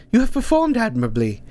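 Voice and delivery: lightly voiced old woman; a hint of gentle mentor; calm old teacher. Hilda Dee consoling Ank after the loss.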